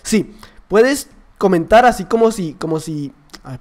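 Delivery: usual speaking voice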